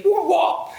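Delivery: high comic wah-wah; high-pitched cartoon noise; playful wah-wah. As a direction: squeal a silly wah-wah. Playful belly noise while stretching.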